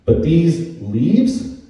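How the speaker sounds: slow, drawn-out apology to his son; dad slowly apologizing to his toddler about the Leafs; slow deadpan apology. Retold or imitated. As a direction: drag it out, then land the punchline. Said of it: "I said".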